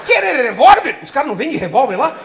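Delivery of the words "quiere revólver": high, loud hawker voice in Spanish; Paraguayan street hawker. Retold or imitated. Paraguayan vendor offering a pendrive to a tourist, loud and high. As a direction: call out like a street seller.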